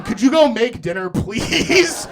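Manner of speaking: playful nagging; pleading. Real, not acted. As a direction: beg for dinner, half joking. Begging someone to make dinner.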